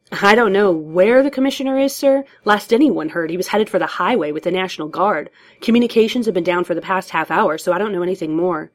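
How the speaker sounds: a hint of a stressed officer reporting; harried cop. Cop answers Batman on the missing commissioner, harried.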